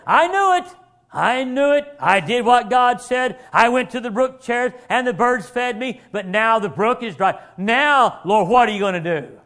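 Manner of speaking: a hint of a griping churchgoer; whiny doubter. Preacher mocks a doubting Baptist, griping. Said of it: "here's the independent Baptist today".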